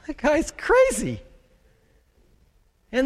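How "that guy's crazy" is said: dismissive. Retold or imitated. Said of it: "they sat there and went".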